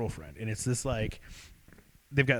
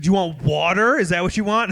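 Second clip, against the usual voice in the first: raised-pitch, impatient questioning; mock exasperation, a bit louder; imitated furious girlfriend; 5 semitones higher, 4 dB louder than usual. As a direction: talk down to someone who won't answer. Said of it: "she's furious".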